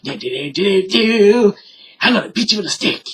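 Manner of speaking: sing-song little mimicking voice; silly nonsense patter, then a quick threat; mock tiny cops. Teller mimicking two small cops, mocking.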